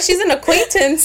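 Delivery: high, offhand brush-off; dismissive high voice. Retold or imitated. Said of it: "she'll be like".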